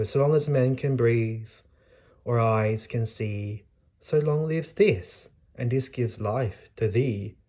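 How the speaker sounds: slow, rising, weighty verse reading; slow dramatic sonnet ending; poetry recital. Shown as a demonstration. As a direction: savour the couplet slowly, building. Reads closing couplet.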